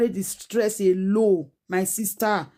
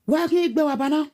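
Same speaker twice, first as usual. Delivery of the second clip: "Why can't you egbe wabana?" pitched higher with "you" stressed; higher, more pushed; 6 semitones higher than usual. Shown as a demonstration. Asked to go faster, repeats it higher. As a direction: lift the whole line higher and lean on "you".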